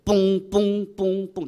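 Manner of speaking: clipped horn-blast imitation; staccato. Shown as a demonstration. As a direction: chop each blast short, staccato. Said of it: "이렇게 스타카토로 딱딱 끊어가지고 크게 부른 거예요".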